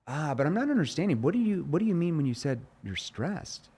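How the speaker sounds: puzzled, asking to understand; confused tone. Shown as a demonstration. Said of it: "That's where you use the confused tone".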